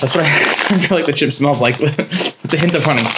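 laughing through the words; amused chuckling. Real, not acted. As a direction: chuckle while making the comparison. Amused by his own smell comparison.

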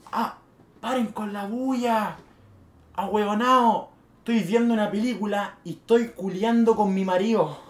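mock yell at the noisy party, drawn out at first; retold neighbor's yell. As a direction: call out a complaint as the neighbor. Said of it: "la señora al lado grita".

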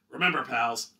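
put-on rally the kids like a matinee idol; booming can-do hero to children; heroic pep talk. Hero addresses school children.

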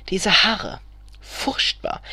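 appalled whisper. A narrator's reading. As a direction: whisper it to your husband in disgust. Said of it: "flüstert Elfriede wieder".

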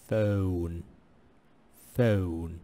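"فون" said loudly and stretched; loud demo of "فون". Shown as a demonstration. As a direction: call out "فون" for the class. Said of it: "نفس الكلام هنا". (نطق "فون" بصوت عالٍ)

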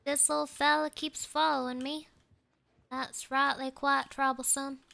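playful Southern twang; Southern country talk, played up; Southern accent. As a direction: put on a folksy Southern accent. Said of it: "doing the accent".

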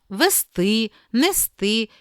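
вести as ve-STY, нести as ne-STY; last-syllable stress. Shown as a demonstration. Teacher giving verb examples, final stress on вести, нести. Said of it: "Наголос на останньому складі мають".

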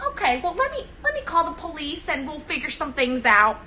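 condescending neighbor grilling a newcomer; Karen with an accent. Acted. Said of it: "Maybe I give her an accent".

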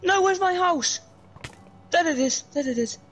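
panicked. Acted. Fleeing to house in game.

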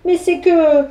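slow, drawn-out justification; a boy squirming, stretched slow; squirming excuse. Acted. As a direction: wriggle out of it. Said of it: "se justifia Pierre en se tortillant".

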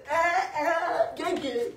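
loud, high celebratory calls; triumphant hype. Real, not acted. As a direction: whoop it up and rally them.

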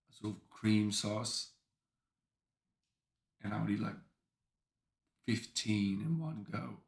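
slow, measured British storytelling; unhurried British voice with long pauses; British accent. Pretend. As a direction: reminisce in a put-on British accent. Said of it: "talk in a British accent".

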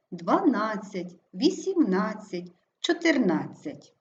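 дваНАДцять, вісімНАДцять, чотирНАДцять, drawn out slowly; stress on penultimate syllable. Shown as a demonstration. Teacher illustrating numeral rule, stress on НАД. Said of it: "наголошений передостанній склад".

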